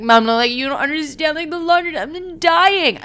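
high-pitched whiny panic; hammed-up dying daughter; mock panic. Pleading panic to mom.

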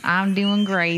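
slow, stretched Southern drawl; Southern accent. Pretend. The host answering the co-host's greeting, Southern accent. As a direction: draw it out like a Southerner. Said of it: "narrating everything I was doing in a Southern accent".

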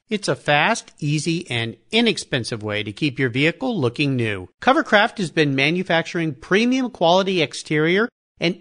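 measured, polished podcast host endorsement; sponsor ad read. Real, not acted. Host recommends car covers to listeners, polished ad read. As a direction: sell it with deliberate emphasis and lilting lists.

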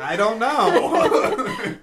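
high, loud words through laughter; laughing. Real, not acted. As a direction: giggle the words out slowly. Laughing fit mid-conversation.

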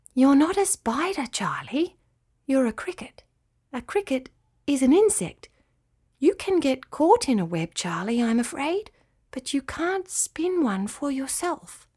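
measured, apologetic spider teacher; kindly spider Nafila, regretful. Acted. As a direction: break it to the little one patiently. Spider gently corrects the cricket.

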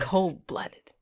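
breathy echo; whispered. Acted. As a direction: whisper it back. Echoing the phrase in whisper.

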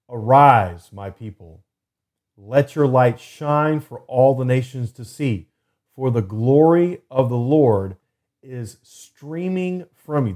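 slow, deliberate Bible reading; scripture reading. Acted. Podcast host reading the Living Bible aloud, slow and deliberate. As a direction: let each phrase land slowly.

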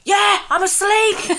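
high, slow, laughing reply; laughing imitation of a groggy mum; laughing mock sleepy mum. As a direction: play mum half-asleep through a laugh. Mum woken at 4am.

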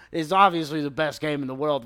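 mock praise in a troll's voice; sarcastic raving imitation; obvious trolling. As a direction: gush insincerely over something awful. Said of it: "that's the obvious troll".

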